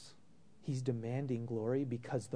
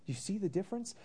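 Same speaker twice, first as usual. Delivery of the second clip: higher, pressing repeat of the question; emphatic repeat; 7 semitones higher, faster than usual. Real, not acted. Pastor presses the congregation, higher and urgent. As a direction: push the question home to them.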